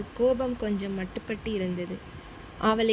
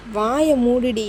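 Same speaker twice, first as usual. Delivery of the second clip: louder, abrupt shut-up; sharp outburst; 6 dB louder than usual. Acted. Husband silencing his wife on the phone, loudly. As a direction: snap it to cut her off mid-sentence.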